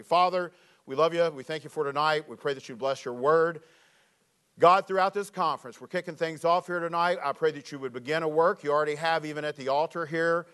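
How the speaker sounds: earnest pastoral prayer. Acted. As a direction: pray sincerely over the congregation. Opening prayer.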